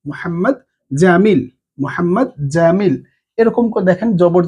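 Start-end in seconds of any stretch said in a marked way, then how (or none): 0.1-2.9 slow, deliberate name; slow example. Shown as a demonstration. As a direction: read the example name carefully. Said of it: "যেরকম আমি এখানে বললাম". (ধীরে নাম উচ্চারণ)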